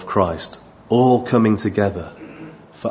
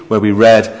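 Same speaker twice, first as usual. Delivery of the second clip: usual speaking voice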